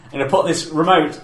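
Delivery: mock tantrum. Mocking angry kid in video.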